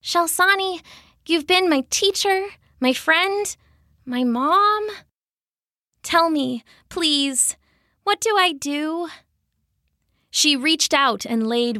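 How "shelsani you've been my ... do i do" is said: high, halting, pleading voice; tearful pleading. A narrator's reading. Daughter begs the tree that was her mother, tearful pleading. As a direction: plead in small broken phrases, pitched high. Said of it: "tears cutting trails through the dirt".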